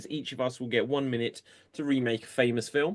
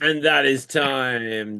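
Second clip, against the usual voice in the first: announcing loudly; 4 dB louder, slower than usual. Real, not acted. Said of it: "host calls time".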